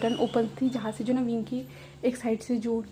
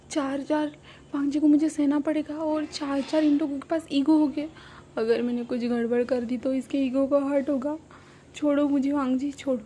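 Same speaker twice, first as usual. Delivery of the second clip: put-on higher, louder drunken babble; retold drunk whine, pitched up and loud; drunk rambling; 3 semitones higher, 5 dB louder than usual. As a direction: slur it like a tipsy friend seeing double. Drunk Wing rambling at Wang.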